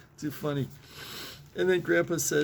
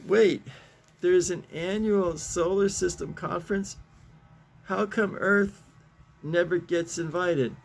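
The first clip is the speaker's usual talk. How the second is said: higher-pitched comic protest; indignant dog; 4 semitones higher, 3 dB louder than usual. Acted. Dog questions the Martian about the conference, indignant. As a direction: raise the pitch, put out at being left out.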